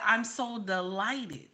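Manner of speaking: put-on slowly quoting a politician's old interview manner; imitated proper interview voice. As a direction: mimic her careful, proper delivery, drawn out. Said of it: "This is how she talked".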